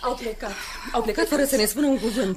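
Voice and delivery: high, thin-voiced grieving after they have left; tearful lament. Soția rămasă singură se tânguie. (tânguire plânsă)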